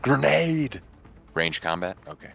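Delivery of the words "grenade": loud, high shouted battle call; warning shout. Acted. Player warns teammate of a thrown grenade, warning shout. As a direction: yell a warning to your squad. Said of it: "tell Zivnevsky that I'm throwing a grenade".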